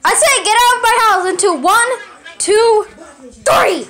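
high, fast warning then a count; threaten, then count it out; angry countdown. Acted. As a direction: homeowner counting down to throw him out. Owner counting down angrily.

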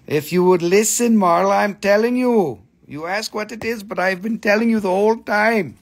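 playfully fed up, lecturing; mock exasperation. Host teases Marla for asking again, mock exasperated scold.

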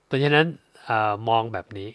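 normal talking voice

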